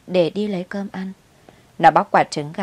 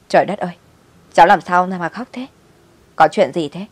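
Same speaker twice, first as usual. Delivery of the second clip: louder, startled concern; alarmed neighbour; 5 dB louder than usual. Acted. Neighbour shocked to find the child crying, alarmed. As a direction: gasp it out in alarm.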